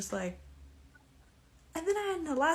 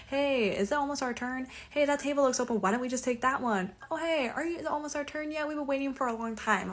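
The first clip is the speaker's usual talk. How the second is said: higher, pushy mock-whine at the waiter; impatient nagging; 4 semitones higher than usual. Mocking her date pestering the waitstaff, impatient whine. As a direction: imitate a pushy impatient customer.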